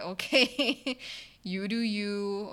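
light laughing brush-off; a laughing you do you. Retold or imitated. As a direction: chuckle it off breezily. Mock-casual reply to upset trainee.

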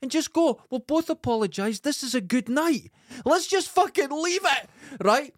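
high, strained, pleading and exasperated; retold roadside row, high and exasperated; pleading exasperation. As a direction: beg him to stop, at the end of your tether. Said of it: "And I found myself going".

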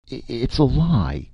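high, feeble, stammered denial. A narrator's reading. Martin caught behind the curtain, feebly denying it. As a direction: protest weakly in hidden panic. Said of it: "Martin said feebly".

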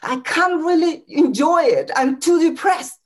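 mock-angry improv rant; playful mock anger. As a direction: complain forcefully, as if badly aggrieved. Improv: angry about nice weather.

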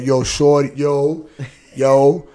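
put-on loud, slangy New York accent. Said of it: "my New York accent came out".

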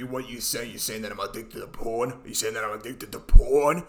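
low put-on New Jersey tough-guy voice; New Jersey accent. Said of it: "doing very specifically a New Jersey accent".

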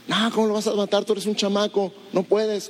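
lightly voiced king; doubting king. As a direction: scoff at a mere kid.

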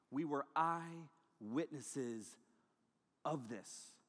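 hushed slow witness; solemn testimony. Acted. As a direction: lean in and say it like a sworn witness. Peter's testimony dropped low.

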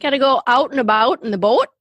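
demonstrated Minnesotan accent. Shown as a demonstration. Co-host checking which accent is meant, playful Minnesotan. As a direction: round Minnesotan vowels on "out" and "boat". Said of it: "That kind?".

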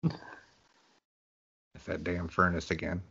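slow grumbling quote. Retold or imitated. Quoting movie line, slow.

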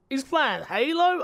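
groaning in disgust at the stream; mock disgust. Retelling waking sick, groaning at friend's stream.

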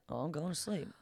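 low, soft retreat to oneself; withdrawn mumble. Retold or imitated. Curled up in the seat avoiding the family, quiet withdrawal. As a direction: say it small and under your breath.

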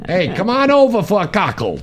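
hammed-up soundbite delivery; mock announcer line. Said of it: "that'll be your soundbite".

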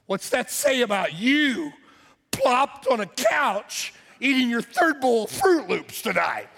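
a mild mocking inner voice scolding; inner voice of conscience. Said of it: "I sensed something saying to me".

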